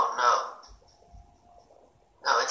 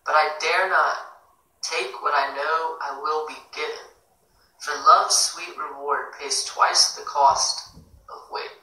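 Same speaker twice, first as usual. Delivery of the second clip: measured poetry recital, stressed words louder; poem reading; 5 dB louder than usual. Acted. Host reads a listener's poem to the live room, measured recital. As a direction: read the poem aloud with deliberate phrasing.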